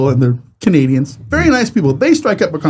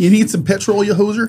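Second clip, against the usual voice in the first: put-on Canadian accent; 6 semitones higher than usual. Mocking Canadians.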